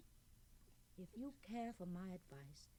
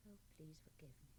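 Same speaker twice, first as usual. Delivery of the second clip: whisper; 5 semitones lower, 14 dB quieter than usual. Acted. About to confess a secret.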